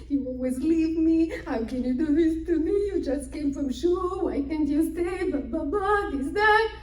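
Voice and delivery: mild mock tearful pleading; lightly put-on whining reproach; imitated crying wife. Wife begging husband not to leave, mock crying. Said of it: "she starts crying".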